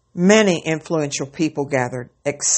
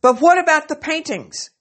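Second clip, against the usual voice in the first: grumbling; 11 semitones higher than usual. A narrator's reading. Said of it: "many grumbled".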